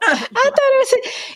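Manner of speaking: laughing high, slowly; words squeezed out through laughter. Real, not acted. Laughing with friends at the bad portrayal, high and slow.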